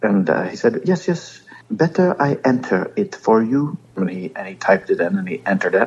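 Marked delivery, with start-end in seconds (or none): 0.9-3.8 put-on French accent, higher. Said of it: "Just throwing a little French accent on it?".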